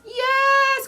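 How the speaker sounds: high, loud cry. Acted. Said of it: "cried Alfred".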